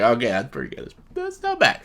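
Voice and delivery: pleasantly surprised, conceding the point; impressed approval. Retold or imitated. Reacting to Ursula's laugh, impressed surprised approval. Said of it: "I'm like".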